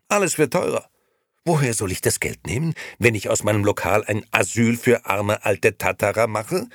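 loud, high, heated tirade; vehement. A narrator's reading. Nino complains to his wife about rising costs, vehement. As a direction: argue heatedly, rising in pitch. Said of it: "antwortete Nino heftig".

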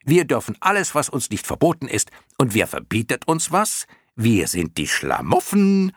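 high, cheeky moth voice; shouting clown moth. A narrator's reading. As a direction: crow it out high, stretching the end. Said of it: "schrie eine andere". (hohe, schreiende Clownmottenstimme)

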